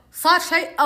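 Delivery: hoarse voice. Retold or imitated. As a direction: put on a slightly husky challenge. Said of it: "بصوت كذا مبحوح".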